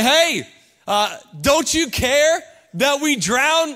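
loud, high panicked cry at Jesus; frantic plea. Acted. Disciples crying out to sleeping Jesus, panicked and loud. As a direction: shake him awake, desperate. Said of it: "they look at Jesus and say".

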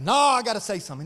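loud, quick burst of protest; insistent refusal. Retold or imitated. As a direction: cut in loudly, refusing to back down. Barber refuses the deal, acted out.

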